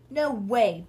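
a loud flat no to her sister; loud refusal. Acted. Bean refusing her sister, loud no. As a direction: blurt it out loud.

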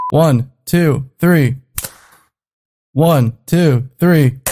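loud count one two three. Real, not acted. Counting in loudly.

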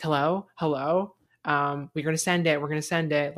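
mock producer voice. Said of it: "she kept saying".

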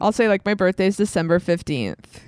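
birthday given in an American accent. Shown as a demonstration. Explaining the phone trick to hosts, American accent. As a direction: say the date as an American would. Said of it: "this is how I talk to people on the, on the phone".

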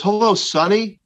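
a hint of a kind grandpa greeting his grandson; grandpa's greeting. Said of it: "And he goes".

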